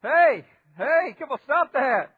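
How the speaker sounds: loud, high mock call to a baby; retold scolding. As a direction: re-enact calling out to hush a crying baby. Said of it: "she was yelling, and I'm going".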